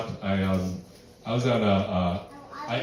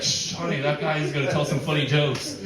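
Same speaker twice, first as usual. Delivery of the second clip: hushing audience member; 3 semitones higher than usual. Retold or imitated. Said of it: "they'd be like".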